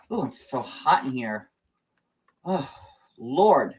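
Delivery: slow, sighing Southern swoon; Southern accent. Acted. Overheated Southern belle complaining about heat, Southern accent. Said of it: "My Southern accent is amazing".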